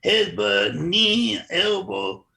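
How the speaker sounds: imitating a thick Brazilian accent. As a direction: play a Brazilian fighter, a bit hammed-up. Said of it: "I'm not gonna imitate it very well".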